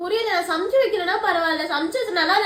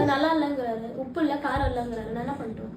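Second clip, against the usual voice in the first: crying; 4 semitones lower, 6 dB quieter than usual. Real, not acted. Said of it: "திருப்பி இதுக்கே அழுவுற".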